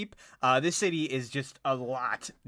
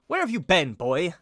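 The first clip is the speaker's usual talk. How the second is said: loud, high, imperious demand; stern raised voice, falling at the end; scolding mother; 6 semitones higher, 8 dB louder than usual. Acted. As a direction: scold your son as he arrives. Mother scolding her returning son.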